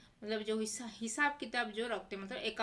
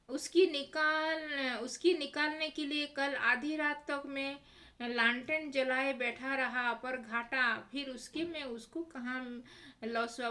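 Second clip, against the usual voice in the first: louder, slowed-down complaint; irritated; 3 semitones higher, 3 dB louder than usual. Acted. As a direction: grumble about the lost rupees, annoyed. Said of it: "झुंझला कर बोल रहा है".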